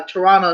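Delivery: Toronto ending in "-nna", no second T; Toronto softened to "tuh-RAH-nuh"; local pronunciation. Shown as a demonstration. Quoting how locals say it, Toronto as "Toronna". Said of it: "Toronto say Toronto".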